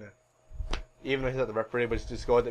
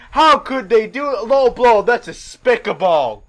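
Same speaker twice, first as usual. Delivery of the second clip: high, loud mock outrage; Schiavone; 5 semitones higher, 7 dB louder than usual. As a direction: play an appalled wrestling commentator. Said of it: "Schiavone's like".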